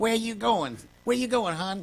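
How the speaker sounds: put-on lady's voice. Retelling an exchange before a morning flight, imitating the lady's voice. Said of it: "you're imitating this voice".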